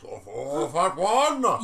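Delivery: a hint of a demon; demonic voice. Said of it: "demonic voice".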